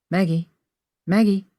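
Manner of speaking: gentle cooing to wake someone. A narrator's reading. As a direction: coax a sleeper awake tenderly. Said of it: "Henry cooed as he rubbed".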